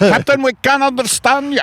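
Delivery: high, urgent crewman's call; crewman's plea. Pretend. Submarine crewman calling up to the captain, high urgent. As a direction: plead with the captain.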